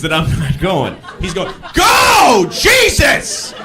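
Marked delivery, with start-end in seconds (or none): 1.7-3.5 high loud furious yell; angry driver screaming to go. Retold or imitated. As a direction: scream it out a car window. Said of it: "Screaming out his window".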